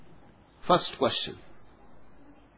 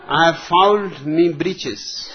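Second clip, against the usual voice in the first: put-on old colonel voice; slower than usual. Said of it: "a retired British colonial army officer".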